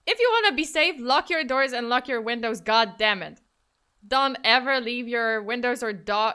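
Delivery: loud, insistent warning; emphatic scolding. Real, not acted. Streamer warning viewers about locking up, emphatic scolding. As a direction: lay down the law forcefully.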